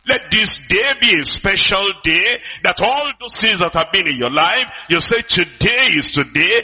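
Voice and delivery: slow, measured, solemn delivery; slow solemn quote of the Lord. Retold or imitated. Pastor quoting the Lord to the congregation, slow and solemn. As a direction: speak the Lord's words slowly and weightily. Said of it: "And the Lord is saying".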